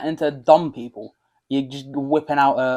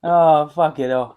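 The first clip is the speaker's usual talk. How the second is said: slow Irish accent; 4 dB louder, much slower than usual. Shown as a demonstration. Still doing the Irish bit for his friend, Irish accent. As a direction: drag it out Irish-style. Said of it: "grew up around Irish people".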